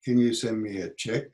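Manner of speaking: quiet question stressing you. Shown as a demonstration. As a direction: lean on you and let it lift at the end. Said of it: "intonation patterns".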